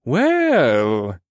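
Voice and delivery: a little too loud. Acted. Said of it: "Scourge said a little too loudly".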